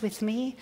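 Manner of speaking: "with me" soft, the word "me" rising; stress on with me. Shown as a demonstration. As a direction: lean into "with me", quietly. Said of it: "Those two words".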